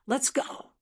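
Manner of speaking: shouting. Acted. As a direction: call out urgently to flee. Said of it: "grabbed her by the arm and shouted".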